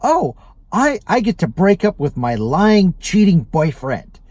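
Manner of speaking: imitating a gleeful breakup announcement; happy news. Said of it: "genuinely happy".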